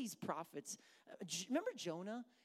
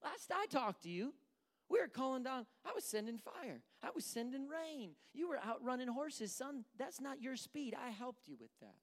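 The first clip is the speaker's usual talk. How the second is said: higher-pitched, incredulous telling-off; exasperated God; 4 semitones higher than usual. Acted. God reminding Elijah of fire and rain, mildly exasperated. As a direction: remind him pointedly, in mild disbelief. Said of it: "I think that's God being like".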